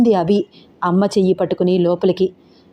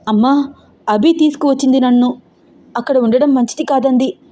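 a touch of fear, slightly higher; trembling voice; 4 semitones higher than usual. Acted. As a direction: shaken girl explaining to mother. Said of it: "నా కంఠంలో వణుకు". (కొంచెం వణుకుతున్న గొంతు)

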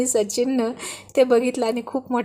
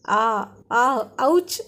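mock cries of pain; much slower than usual. A narrator's reading. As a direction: imitate someone yelping, playfully. Mimicking her cries of pain. (दुखल्याची नक्कल करत)

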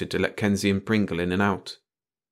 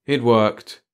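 bored; 3 semitones higher, 5 dB louder than usual. A narrator's reading. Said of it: "Kenzie answered in a bored voice".

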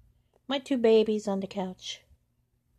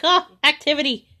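much higher, louder excited cat voice; voicing the cat; 9 semitones higher, 12 dB louder than usual. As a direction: squeal it like a thrilled kitten. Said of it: "He's like".

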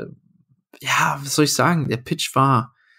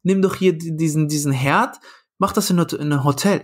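pitched up, offhand suggestion; higher casual producer; 3 semitones higher than usual. Retold or imitated. Producers telling him to cook in hotel, higher offhand voice. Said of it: "Die so".

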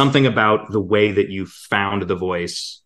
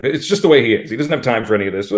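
an impatient little villain, lightly voiced; no time for any of this; Purple Pie Man voice; 3 semitones higher, 4 dB louder, faster than usual. Shown as a demonstration. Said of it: "the Purple Pie Man's like this".

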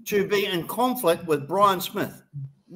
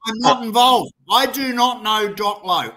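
insistent, exasperated protest; real heated insistence; emphatic denial. Real, not acted. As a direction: deny it forcefully, word by word. Heated denial, told he's overreacting.

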